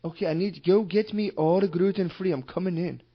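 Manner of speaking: insistent, badly faked Russian accent; mock Russian accent. Prank caller ordering gluten-free food, in mock Russian accent. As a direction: demand it in a rough Russian accent. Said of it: "That was a Russian accent".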